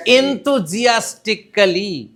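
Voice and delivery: Enthusiastically drawn out slow with high energy. Shown as a demonstration. Teacher to class, modelling the word enthusiastically. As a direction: say Enthusiastically slowly and eagerly. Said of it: "What is the word?".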